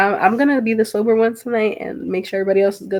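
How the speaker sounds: normal talking voice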